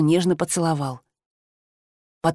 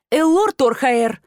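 slow, higher, louder full-name scolding; stern higher bark of a name; snapping his full name; 5 semitones higher, 3 dB louder, slower than usual. A narrator's reading. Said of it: "рявкнула уже я".

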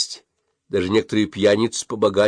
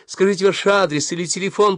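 lamenting; 11 semitones higher, 4 dB louder than usual. A narrator's reading. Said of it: "причитала она".

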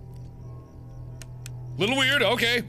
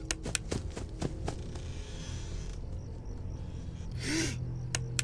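startled breathless gasp; sharp gasp; 3 semitones higher, 14 dB quieter than usual. Real, not acted. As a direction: gasp in sudden fright. Jump scare in the game.

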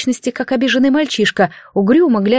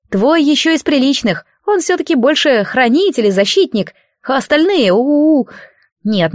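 put-on higher, cheeky spirit voice, grumbling at a stubborn girl; impish unseen spirit; 4 semitones higher than usual. Spirit scolding a sleeping priestess, impish and grumbling. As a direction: tease her like a bored little godling.

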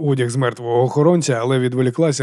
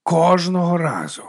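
slow tired repeat of «Кожного разу»; drawn-out weary «Кожного разу»; weary sigh; 5 semitones higher, slower than usual. A narrator's reading. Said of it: "протяжно зітхнув".

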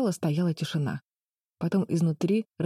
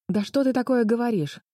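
a touch of stunned disbelief; astonished protest; 7 semitones higher than usual. Acted. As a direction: argue back in amazement. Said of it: "поражённо заспорила Флис".

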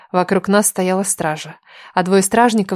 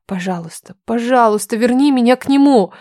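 pleading prayer; 3 semitones higher than usual. Acted. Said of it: "молилась я".

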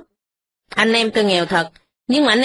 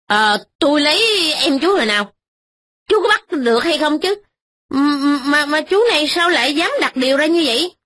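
put-on higher, defensive young rich man; indignant young master; 4 semitones higher than usual. Young master denies marrying Ba Cam's sister, lightly voiced and indignant. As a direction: bluster and deny everything.

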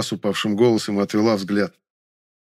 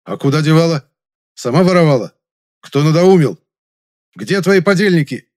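loud angry questioning, higher; 7 semitones higher, 7 dB louder than usual. Acted. Young man presses the maid for accomplices, loud and angry. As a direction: hammer her with questions.

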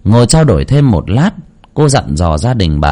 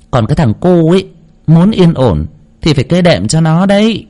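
higher-pitched medium prescribing rites; knowing spirit medium; 6 semitones higher than usual. Acted. Medium tells the client which rituals are needed, high and assured. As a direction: instruct with a medium's assured authority.

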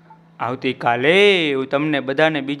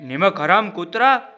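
rising, higher angry outburst at the dog; angry cry; 7 semitones higher than usual. A narrator's reading. Trader screaming at his returning dog, angry. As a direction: cry out in betrayed fury. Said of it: "વણઝારાએ ચીસ પાડી".

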